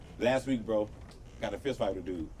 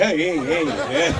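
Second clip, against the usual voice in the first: louder laughing hey hey; laughing stop-it; laughing protest; 4 dB louder, much slower than usual. Retold or imitated. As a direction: laugh while waving it off. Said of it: "I said".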